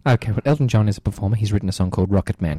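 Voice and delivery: lightly voiced old-lady caller; caller Maureen. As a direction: tell the joke as a chatty old caller.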